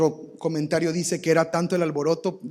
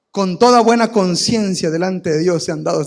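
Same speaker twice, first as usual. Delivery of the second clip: loud, emphatic proclamation; loud, self-righteous mock announcement; solemn mock declaration; 10 dB louder than usual. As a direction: declare it boldly to your drinking buddies. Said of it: "le dices a tus amigos borrachitos".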